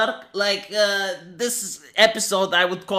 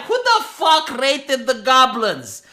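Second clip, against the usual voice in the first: mildly hammed-up outrage; exasperated mock-adventurer complaint; indignant rant; 3 semitones higher, 3 dB louder than usual. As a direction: demand answers, raised and emphatic. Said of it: "I would be like".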